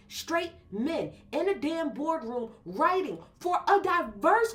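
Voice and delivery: loud, heated rant at the writers; fired up, hammering each demand; angry rant. Real, not acted. Host ranting at the WWE writers' room, angry and loud. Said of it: "Done with my fucking rant".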